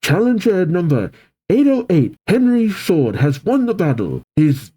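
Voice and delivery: lightly voiced stadium announcer; a touch of sports-announcer lilt. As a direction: announce the result to the stands. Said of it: "The announcer says".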